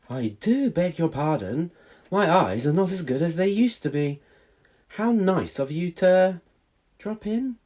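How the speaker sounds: put-on gently genteel elderly lady; hint of a sweet old lady; lightly voiced old lady. Old lady speaks politely.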